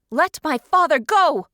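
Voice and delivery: loud, high desperate shout. Acted. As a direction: yell it to free him. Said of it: "I shouted".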